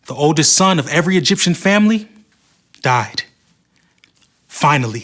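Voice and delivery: steady storyteller reading a Bible story; story narration. Acted. Host narrating the Moses story to viewers, lightly dramatic. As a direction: tell it like a children's Bible story.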